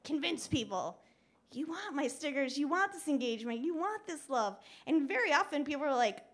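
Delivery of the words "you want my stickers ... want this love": pushy, higher-pitched insistence; mildly pleading sales pitch; convincing. Retold or imitated. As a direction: press each claim on them eagerly. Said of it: "convince, you know, convince people".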